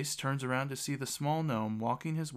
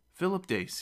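lightly exclaimed, pitched up high; exclaimed introduction; 8 semitones higher than usual. A narrator's reading. Kneeling lord introduces himself to the gnome, exclaiming. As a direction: announce the name with a raised voice. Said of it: "he exclaims".

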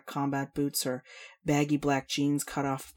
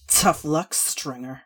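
spat out; 6 dB louder, slower than usual. Acted. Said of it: "she spat".

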